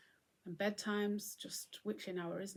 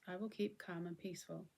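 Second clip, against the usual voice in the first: calm affirmation; 5 dB quieter than usual. Shown as a demonstration. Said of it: "That's your affirmation to yourself".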